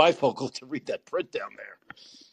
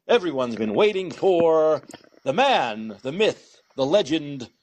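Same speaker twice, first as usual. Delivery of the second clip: announcer build-up; much slower than usual. Acted. Host introducing guest Lance.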